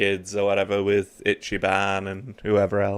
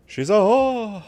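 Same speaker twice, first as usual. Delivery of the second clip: squeaky mock outrage much higher; mock shocked voice; 12 semitones higher, slower than usual. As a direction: play a scandalized gossip, pitched way up. Reacting to game scene.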